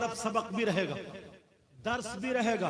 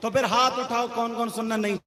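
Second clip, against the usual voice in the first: louder, teasing challenge to the audience; rousing the crowd; 4 dB louder than usual. Real, not acted. Preacher teasing the audience to raise hands, louder challenge. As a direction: rouse them and dare them to raise hands.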